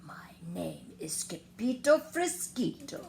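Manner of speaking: hushed, whispered bravery; very soft voice. Acted. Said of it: "in a muy, muy soft voice".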